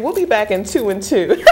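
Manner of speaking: Chuck Woolery game-show host patter through laughter; laughing host bit. Pretend. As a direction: laugh while playing the TV host. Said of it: "like Chuck Woolery".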